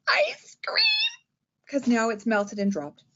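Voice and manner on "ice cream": big dramatic despair over ice cream; dramatic cry. Shown as a demonstration. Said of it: "Big dramatic".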